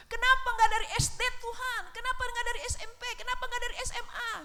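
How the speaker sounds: high, loud and fast pleading protest; retold loud complaint to God. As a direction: hurl the questions at God. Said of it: "saya nangis-nangis".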